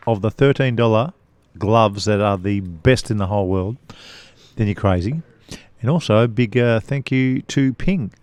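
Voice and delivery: talking with a mouthful of mints; chewing Mentos while reading the ad; mouth full. Real, not acted. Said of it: "He's got a mouthful of Mentos".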